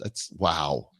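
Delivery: breathless whispered wow; hushed stunned wow; awed whisper. Real, not acted. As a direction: whisper it in disbelief. Awed after big number.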